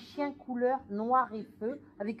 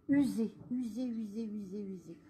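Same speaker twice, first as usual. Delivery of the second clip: each "usée" softer until it dies out; a relayed spirit voice fading to nothing; fading away; 3 semitones lower, 6 dB quieter than usual. Retold or imitated. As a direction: let the voice sink as if exhausted. Relaying the dying mother.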